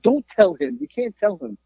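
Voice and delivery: high, urgent imitation of a plea; mock pleading. Son begging mom not to tell dad, high mock pleading.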